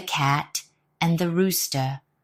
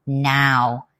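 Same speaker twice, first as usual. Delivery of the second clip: ordering; 3 semitones lower, 3 dB louder than usual. Acted. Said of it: "he ordered".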